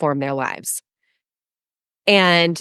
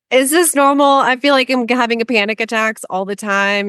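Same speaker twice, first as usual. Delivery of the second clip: mock panic; 5 semitones higher than usual. Voicing own panicked questions to coach.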